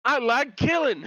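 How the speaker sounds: gleeful manic killer; unhinged villain. Retold or imitated. Joins the unhinged impression.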